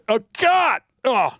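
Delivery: high disgusted groan; disgusted laughter. Real, not acted. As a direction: recoil with a loud laughing groan. Reacting to a disturbing photo.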